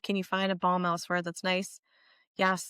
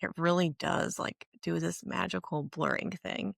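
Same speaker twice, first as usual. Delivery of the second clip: vocal fry. Real, not acted. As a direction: let the voice crackle into fry. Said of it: "sorry for the vocal fry".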